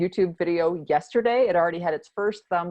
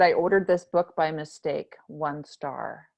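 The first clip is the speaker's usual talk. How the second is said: reading a review; 4 semitones lower, slower than usual. Retold or imitated. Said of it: "True Review said".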